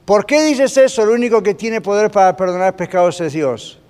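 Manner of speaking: high, loud, indignant challenge that settles back toward normal; accusing shout at Jesus from the crowd; Pharisees shouting. Retold or imitated. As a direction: cry out like an outraged Pharisee. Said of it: "empezaron a los gritos a decir".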